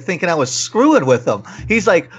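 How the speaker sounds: normal talking voice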